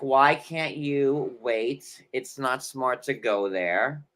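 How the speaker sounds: slow, lightly voiced husband; a hint of a slow husband; man's voice. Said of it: "doing it as a man and a woman".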